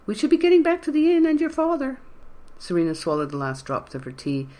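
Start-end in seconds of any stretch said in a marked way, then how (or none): 0.1-2.0 much higher, projected granny voice; louder old woman voice. A narrator's reading. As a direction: call out as the frail old lady. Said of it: "he said louder".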